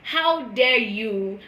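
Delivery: slow, indignant How dare you; retelling her reply to a friend, slow and indignant. Retold or imitated. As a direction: spell out the outrage slowly. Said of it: "I was like".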